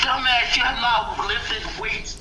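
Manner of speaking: high-pitched scolding retort; mock exasperated. Acted retort to the teasing.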